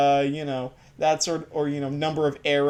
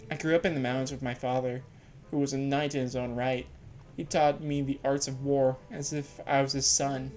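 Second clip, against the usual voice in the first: a hint of a quiet, blunt swordswoman, softer; lightly voiced warrior woman; 3 dB quieter than usual. Voicing a knight's daughter.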